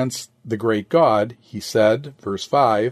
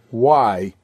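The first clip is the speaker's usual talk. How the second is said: "Why" set alone as the emphasized word; stress on WHY. Shown as a demonstration. Preacher singling out a word of Christ's question, stress on "Why". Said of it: "Put the emphasis upon the word".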